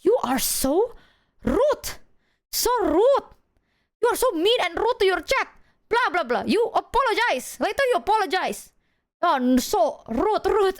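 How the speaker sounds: high-pitched nagging mom impression; scolding mom. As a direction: imitate a mother's exaggerated telling-off. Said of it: "she called me and she was like".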